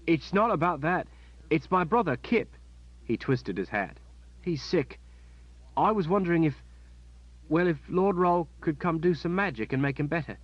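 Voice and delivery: put-on high child's voice, anxious and earnest; a worried boy begging help for his brother; pleading boy. Boy begging Kalen for magic for his sick brother, anxious.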